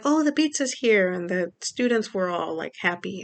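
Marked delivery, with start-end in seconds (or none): 0.0-1.1 mock teacher voice, much higher and louder; cheerful teacher greeting. Mother imitating her son's teacher at the door, higher and louder. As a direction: imitate the teacher's bright hello.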